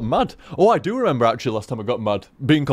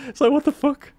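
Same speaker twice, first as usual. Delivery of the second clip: exasperated outburst; 12 semitones higher than usual. Retold or imitated. Mock outburst at himself.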